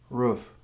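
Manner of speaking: roof, said slowly the Philly way; Philly pronunciation. Shown as a demonstration. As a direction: give roof its Philly vowel. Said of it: "Here you will find words like".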